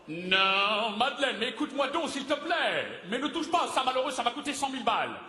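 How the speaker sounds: high-pitched, urgent protest; frantic pleading. Acted. Dramatist begging Madeleine not to touch his things, frantic. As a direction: plead with mounting alarm.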